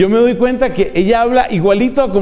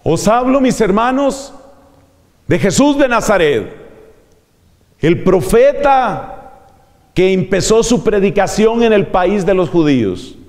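higher preaching voice; 3 semitones higher than usual. Shown as a demonstration. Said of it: "¿Lo puedo decir más alto?".

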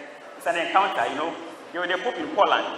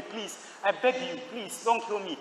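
soft, higher-pitched plea; retold begging; 4 semitones higher, 4 dB quieter than usual. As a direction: imitate a condemned man pleading softly for his life. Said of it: "he knelt down and begged me".

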